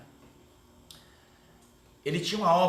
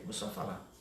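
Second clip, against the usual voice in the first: ordinary talk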